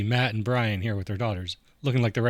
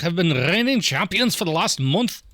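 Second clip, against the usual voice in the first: high, loud announcer voice; loud hammed-up trivia announcer; announcer boom; 8 semitones higher, 5 dB louder than usual. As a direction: announce the champions grandly. Announcing rival team name.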